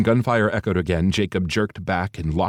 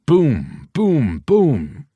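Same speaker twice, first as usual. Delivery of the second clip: loud, punchy, higher boom sounds; booming explosions; 8 semitones higher, 6 dB louder, much slower than usual. Acted. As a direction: hit each boom like a blast.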